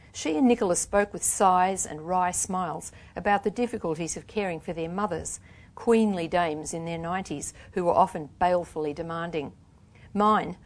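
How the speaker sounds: reads her novel aloud with lift and energy; story reading. Acted. Author reading her novel to an audience, in a lively reading voice.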